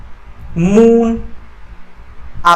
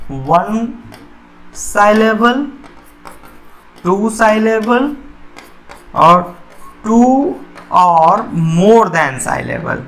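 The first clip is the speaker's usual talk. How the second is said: slow listing; much slower than usual. Shown as a demonstration. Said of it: "teacher lists syllable types".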